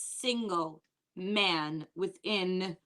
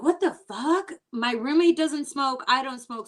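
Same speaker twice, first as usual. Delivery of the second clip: shocked outburst; 4 semitones higher, 5 dB louder than usual. Retold or imitated. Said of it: "So I'm like".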